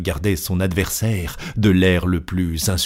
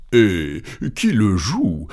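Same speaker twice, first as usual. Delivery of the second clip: cold reply; slower than usual. Acted. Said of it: "répondit froidement Phileas Fogg".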